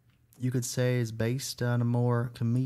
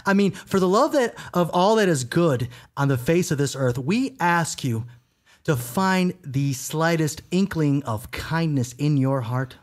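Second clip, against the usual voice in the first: charity infomercial; 3 semitones higher, slower than usual. Acted. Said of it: "one of those infomercials".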